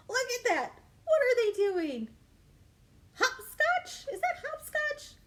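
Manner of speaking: high, loud, eager questions; excited wonder. Acted. Reader pointing out the pea pals, excited. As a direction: point it out like a discovery. Spotting hopscotch picture.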